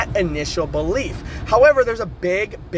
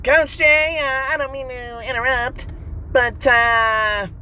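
higher, put-on interrupting voice; alter ego voice; 5 semitones higher than usual. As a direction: cut in politely as the other self. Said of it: "do you keep talking like that?".

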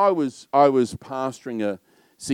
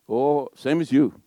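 lightly imitated Welsh lilt; a hint of mock Welsh; Welsh accent; 3 semitones higher than usual. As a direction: attempt a young Welsh lad's accent. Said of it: "That's my best Welsh accent".

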